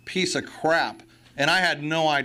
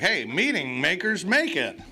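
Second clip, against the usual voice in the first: mocking old-timers; 2 semitones higher than usual. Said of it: "the guys were like".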